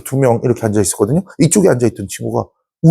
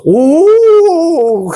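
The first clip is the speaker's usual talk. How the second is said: high, loud imitated exclamation of delight; mock surprised oh; 13 semitones higher, 5 dB louder than usual. Brother retelling a foreign guest's delighted reaction, mock surprised. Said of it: "그러면서".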